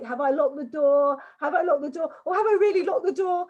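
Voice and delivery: mock fretful self-questioning, rising in pitch; anxious checking. Coach mimics someone compulsively checking the door, mounting doubt. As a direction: act out doubt building with each repeat. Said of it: "you know, the checking thing".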